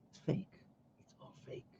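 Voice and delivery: hushed whisper, barely voiced; breathy confiding whisper. Real, not acted. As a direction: let it out as a secret. Sudden hushed aside about Vegas.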